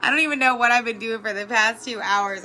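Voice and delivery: laughing while telling her best friend; laughing, flustered. Retold or imitated. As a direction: spill it out through laughter. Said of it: "I call her and say".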